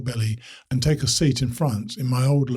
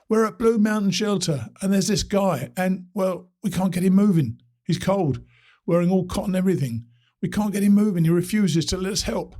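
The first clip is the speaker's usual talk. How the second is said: distant phone voice; 7 semitones higher than usual. Acted. Distant caller pleading for help.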